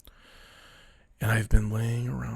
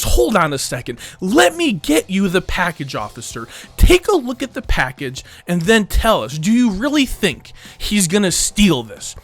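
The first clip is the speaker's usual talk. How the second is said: loud, higher-pitched indignant husband; hot-blooded protest; 5 semitones higher, 5 dB louder than usual. Retold or imitated. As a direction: imitate a worked-up husband arguing with police. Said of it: "starts getting all hot-blooded and Brazilian".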